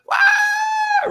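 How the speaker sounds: high excited whoop of joy. Retold or imitated. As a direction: let out a jubilant yelp. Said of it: "I was fired up".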